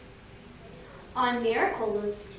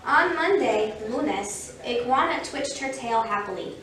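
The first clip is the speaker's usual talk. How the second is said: lively picture-book reading; story narration. A narrator's reading. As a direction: read it clearly to young children. Reads a picture book aloud.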